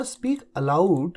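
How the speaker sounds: slow, every word spelled out; slow dictation. Shown as a demonstration. Teacher to Hindi students, slow clear dictation. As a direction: say speak aloud slowly for students to copy. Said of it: "अब जैसे ऊंचा बोलो".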